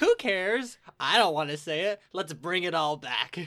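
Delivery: loud, throw-up-your-hands outburst; mock outrage. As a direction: protest loudly, half-joking. Mock outrage at own speech.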